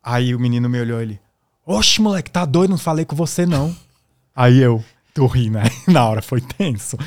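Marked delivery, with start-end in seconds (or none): 1.6-3.7 mock tough guy. Aggressor brushes off the narrator.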